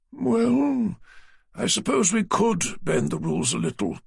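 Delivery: a prim, slightly pompous office man; publisher Naylor. A narrator's reading. Naylor relenting.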